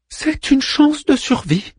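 high, slow falling delivery; Manmut repeating himself. A narrator's reading. Manmut repeats the hope to Orpheus, high and slow. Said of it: "répéta-t-il".

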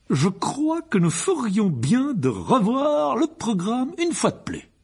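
high, loud, drawn-out officious uncle; pompous Uncle Vernon, commanding. A narrator's reading. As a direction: lay down the programme with ceremony. (oncle pompeux qui donne ses ordres)

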